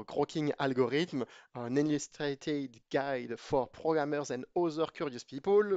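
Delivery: English book title read with a French accent; careful, slow reading of the English title, French accent. Real, not acted. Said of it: "vous excuserez mon accent anglais".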